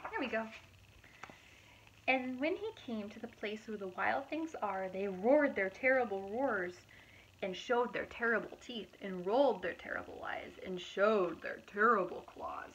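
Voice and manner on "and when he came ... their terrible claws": steady rhythmic listing; storybook narration. A narrator's reading. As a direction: build the list of terrible things. Reading picture book aloud.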